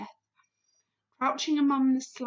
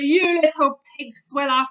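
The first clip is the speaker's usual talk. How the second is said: roaring; 11 dB louder than usual. A narrator's reading. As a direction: roar it at the giant. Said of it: "roared the blood bottler".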